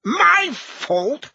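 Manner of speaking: high-pitched affronted question; indignant. A narrator's reading. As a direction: shoot the pitch right up in disbelief. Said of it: "colouring up".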